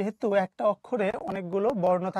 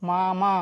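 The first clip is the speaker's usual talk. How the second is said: "মা মা" as two drawn-out syllables; slightly part the two beats of "মা মা"; split syllables; slower than usual. Shown as a demonstration. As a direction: demonstrate each "মা" as its own syllable. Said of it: "থামা লাগছে না".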